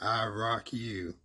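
drawn-out, slow rock singer chant; rock band. Retold or imitated. Band on stage rocks the crowd, slow drawn-out chant. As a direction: stretch it out like a frontman working the crowd.

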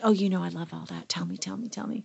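soft and eager, coaxing gently; a kind therapist who wants to hear it all; inviting therapist. Retold or imitated. Therapist welcoming a client's bad news, softly eager. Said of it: "And she's like".

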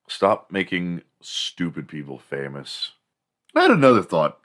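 ordinary talk

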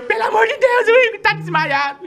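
panicked friend. Retold or imitated. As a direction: cry out in alarm for a fainted friend. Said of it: "ele ia segurando eu".

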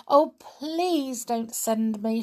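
put-on slow, mild child's plea; a touch of a begging little girl. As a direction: plead gently so they won't send you. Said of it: "she begged".

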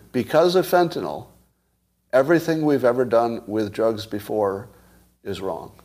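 announced with weight on because of fentanyl; proclaimed slogan. Shown as a demonstration. A politician saying the key words to voters, weighty. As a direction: deliver it like a campaign slogan. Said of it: "Here's the following words".

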